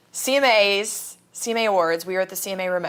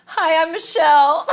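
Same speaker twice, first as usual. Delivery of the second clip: giddy laughing hello; 9 semitones higher, 7 dB louder than usual. Retold or imitated. Finally introducing herself to Reba.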